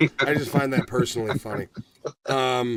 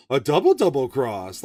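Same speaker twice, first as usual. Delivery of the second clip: mock dramatic line; 3 dB louder than usual. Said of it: "Jake Gyllenhaal is literally going".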